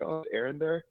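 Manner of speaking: high-pitched sweet-talking caller at the door; Eddie Haskell. Retold or imitated. Six-year-old asking for Aaron at his door, innocent act. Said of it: "James would play, like, uh, Eddie Haskell".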